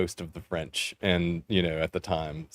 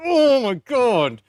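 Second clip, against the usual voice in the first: high, drawn-out "oh my God"; exasperated groan; 7 dB louder, much slower than usual. Retold or imitated. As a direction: drag it out loud and high in mock despair. Reacting to teacher's Southern-accented French.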